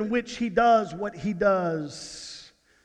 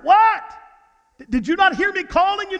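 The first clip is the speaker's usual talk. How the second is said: exasperated; 9 semitones higher, 5 dB louder, faster than usual. Retold or imitated. Wife annoyed he didn't hear.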